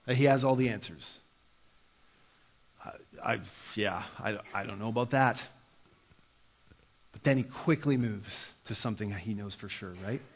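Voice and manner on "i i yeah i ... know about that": humble unsure beggar. Retold or imitated. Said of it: "He doesn't pretend".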